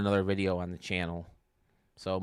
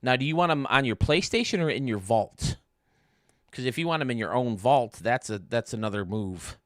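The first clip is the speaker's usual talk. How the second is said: talking around a jawbreaker; candy in the cheek while talking; mouth full; 3 semitones higher, 5 dB louder than usual. Real, not acted. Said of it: "I got a jawbreaker in my mouth now".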